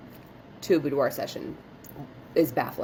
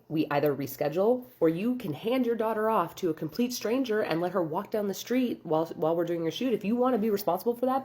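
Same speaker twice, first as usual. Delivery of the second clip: higher-pitched, incredulous listing of options; exasperated ultimatum; 5 semitones higher than usual. Retold or imitated. Studio owner giving client two options, exasperated. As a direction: lay out the absurd choice pointedly.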